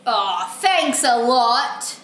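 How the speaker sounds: slow, lightly sarcastic grumble; sulky book character. Acted. Frog character blaming the reader, sulky sarcasm.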